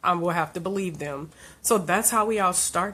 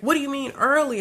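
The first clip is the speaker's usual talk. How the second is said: higher, raised angry demand; mother to doctors, angry raised question; 7 semitones higher, 3 dB louder, faster than usual. Retold or imitated. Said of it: "I was angry and I'm like".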